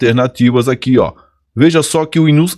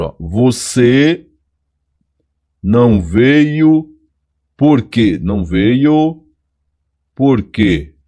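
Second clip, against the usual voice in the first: não veio slow, then por quê stressed at the end; slow demo question; slower than usual. Shown as a demonstration. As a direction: show the question word landing last. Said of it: "fica perto desse ponto aqui de interrogação". (pergunta lenta com por quê no final)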